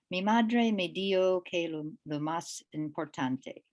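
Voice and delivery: Spanish read with a light non-native accent; careful, non-native Spanish pronunciation. Real, not acted. Poet apologizing for her accent, non-native Spanish accent. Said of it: "forgive me my accent because I don't speak Spanish".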